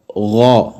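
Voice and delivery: गौ with a heavy, full ghain from the upper throat; गौ with a deep, heavy gargled ghain. Shown as a demonstration. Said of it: "इसको आप पढ़ें तो ये पुर करके पढ़ना है".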